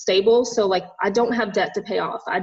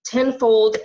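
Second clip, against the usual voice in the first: tearful; 4 semitones higher, much slower than usual. Real, not acted. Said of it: "just started crying on this".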